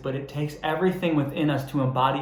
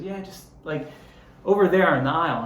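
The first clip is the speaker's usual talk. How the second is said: higher, hesitant mock of a lazy employee; vague clerk; 3 semitones higher than usual. Clerk barely helping the customer, mocked higher and halting. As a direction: drag it out with ums like you can't be bothered. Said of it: "He goes".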